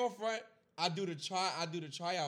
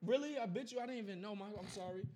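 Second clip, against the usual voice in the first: mock innocent woman; 4 semitones higher, 3 dB quieter than usual. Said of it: "they never say they never remember".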